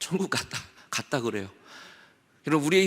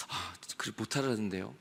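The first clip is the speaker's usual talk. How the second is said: meek sinner; 5 semitones lower, 9 dB quieter than usual. Acted. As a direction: lower and much softer, ashamed mumble. (부끄러워 작게 대답하는 죄인)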